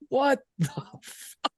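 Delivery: high, drawn-out mock exclamation; retold pissed-off outburst. Manager walks into the dirty bathroom, imitated high-pitched outrage. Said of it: "he was pissed about it".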